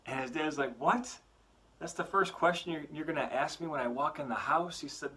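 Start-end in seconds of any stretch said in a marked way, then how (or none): 0.8-4.8 high, sharp exasperated "What?" then a rant; a worn-out father snapping at his kid; irritated dad. Acted. Tired dad snapping at his young son, exasperated.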